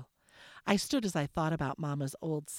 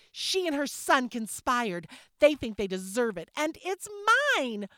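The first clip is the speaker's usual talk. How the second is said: accusing; 9 semitones higher, 5 dB louder than usual. Acted. Sister accuses her rival.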